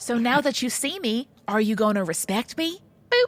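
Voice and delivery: high, harmless, unscary put-on creature voice. Voicing the construct after the listeners say it isn't scary: unscary construct voice. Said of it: "Why does it sound like that? You chose that voice?".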